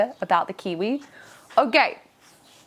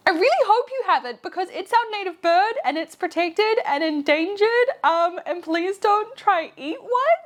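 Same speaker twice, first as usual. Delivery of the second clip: alarmed inner voice; 11 semitones higher than usual. Retold or imitated. Her inner reply, alarmed.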